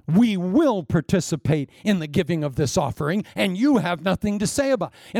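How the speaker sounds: set, insistent, not asking; firm insistence. Retold or imitated. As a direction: tell Paul it's decided. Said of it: "spoke firmly to him".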